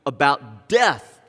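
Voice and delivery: mildly hammed-up confusion; confused disciples. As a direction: plead in disbelief as the disciples. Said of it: "They're like".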